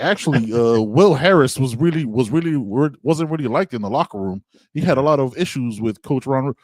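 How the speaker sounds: mock gossipy retelling; mock gossip source. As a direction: imitate a tattling source, voice lilting up and down. Mimicking anticipated gossip article source.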